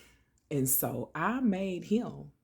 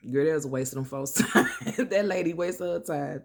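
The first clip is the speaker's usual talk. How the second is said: louder, quick, laughing through it; 6 dB louder than usual. Real, not acted. To listeners, about the counselor's wasted time: laughing. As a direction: crack up at the memory.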